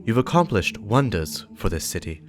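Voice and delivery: lightly voiced earnest warlock, a touch of warning; Aunor, grave warlock. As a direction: speak as a serious, wary warlock writing to an ally. Reads warlock's message in character.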